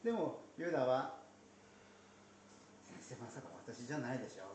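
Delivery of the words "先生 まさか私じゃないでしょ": hushed and quick; sneaky quiet aside. Retold or imitated. Judas quietly asking Jesus if it is him, hushed and quick. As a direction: slip it in quietly and fast. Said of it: "こそこそっと言った".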